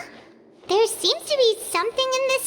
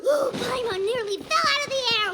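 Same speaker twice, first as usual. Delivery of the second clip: startled cry. Acted. Paimon startled in midair.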